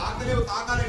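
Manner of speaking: loud teasing challenge. Real, not acted. Teacher teasing kids who can't reach.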